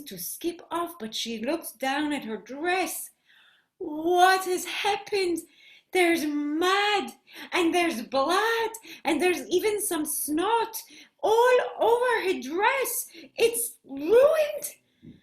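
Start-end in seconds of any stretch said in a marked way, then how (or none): 3.8-15.2 dramatic distress, rising to a high cry; mounting dismay. Acted. Hannah finds mud on her dress, building dismay. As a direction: build from shock to a wailed finish.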